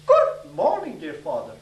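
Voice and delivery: a blacksmith proudly trying out his polished greeting; formal greeting. Retold or imitated.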